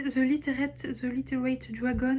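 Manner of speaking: English title in a strong French accent; accent anglais approximatif. Real, not acted. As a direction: say the English words with a self-mocked French accent. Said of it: "avec un magnifique accent anglais". (anglais avec un gros accent français)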